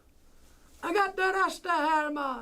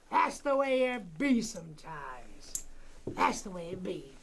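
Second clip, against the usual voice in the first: much lower and softer, slowed tagline; 9 semitones lower, 4 dB quieter than usual. Real, not acted. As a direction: drop deep and soft to sign off the thought. Drops voice for a tagline.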